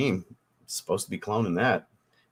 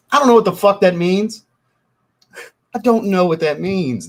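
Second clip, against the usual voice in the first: much higher and louder, fed-up disbelief; exasperated outburst; 11 semitones higher, 9 dB louder than usual. Real, not acted. Streamer to a viewer who wrote only LOL, exasperated yelling. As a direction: throw your hands up at a baffling comment. Exasperated at cryptic chat comment.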